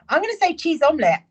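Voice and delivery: high, loud and fast, bursting with giggles; laughing answer. Real, not acted. Answering a viewer's food question, giggling loudly. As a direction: blurt it out through laughter.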